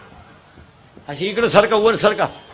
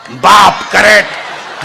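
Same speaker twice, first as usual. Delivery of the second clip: ordinary delivery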